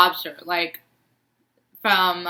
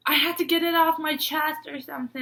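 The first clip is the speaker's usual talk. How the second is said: put-on boyfriend's sheepish voice; 9 semitones higher than usual. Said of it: "he was like".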